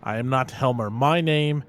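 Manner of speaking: slow, deliberate in-character declaration; resolute investigator. Acted. Investigator telling Oscar who he really is, resolute. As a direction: state it firmly, word by word. Player speaks as Ernest Anderson.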